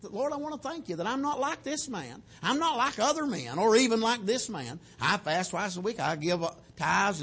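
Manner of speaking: a hint of self-righteous boasting in a prayer; lightly mock a man praising himself to God; boastful Pharisee. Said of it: "he goes on telling all that stuff".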